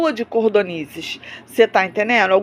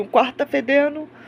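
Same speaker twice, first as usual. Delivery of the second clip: put-on tearful, crying voice, higher pitch; 3 semitones higher, 3 dB quieter than usual. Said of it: "E ela chorando".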